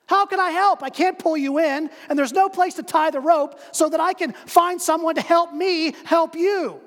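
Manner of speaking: high, loud frantic protest; shouting down. Acted. Man on bridge shouts down in frustration.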